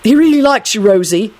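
mildly sympathetic reassurance. A narrator's reading. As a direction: console a sister in a lifted voice. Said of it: "in a sympathetic tone".

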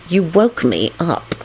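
slow, grumpy complaint; petulant. A narrator's reading. Lupin blames Kingsley for waking him, slow petulance. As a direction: grumble it out slowly. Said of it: "he added petulantly".

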